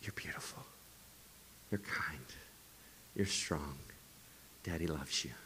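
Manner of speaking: tender bedtime whisper; a father's gentle goodnight whisper; whispered affirmations. Retold or imitated. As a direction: whisper softly into a child's ear. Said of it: "I just put that on repeat".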